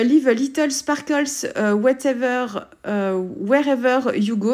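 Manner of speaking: English title read slowly in a French accent. Real, not acted. Reading her page title to viewers in a French accent. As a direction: say the English words the French way, unhurried. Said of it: "avec mon accent".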